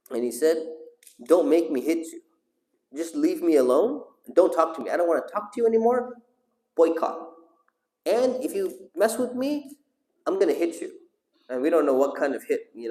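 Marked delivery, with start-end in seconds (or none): 1.2-10.9 a raised, threatening father warning his son off; father threatening his son, mildly angry; angry father threat. Acted. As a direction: push him away with a menacing warning, rising as you go.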